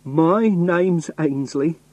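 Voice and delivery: slow, high, emphatic insistence; very angry. A narrator's reading. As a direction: spell out the name angrily, drawn out. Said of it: "I started to get very angry".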